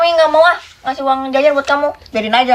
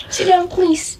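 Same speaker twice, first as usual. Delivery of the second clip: "Sit down, please" pitched higher and coaxing; pleading mum; 5 semitones higher, much slower than usual. Shown as a demonstration. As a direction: ask the child sweetly, higher.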